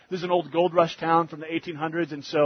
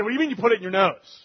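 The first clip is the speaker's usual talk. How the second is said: alarmed father; 4 semitones higher, faster than usual. Retold or imitated. Alarmed father questioning son.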